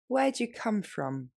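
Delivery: brisker, everyday pace; natural speed. Shown as a demonstration. Teacher modeling natural speed for learners. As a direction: say it the way a native would. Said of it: "Et plus rapidement, plus naturellement".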